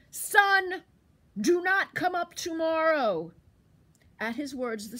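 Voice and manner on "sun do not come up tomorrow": much louder, higher booming order to the sun; loud command. Acted. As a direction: command the sun like a mighty bear. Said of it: "spoke in a loud voice".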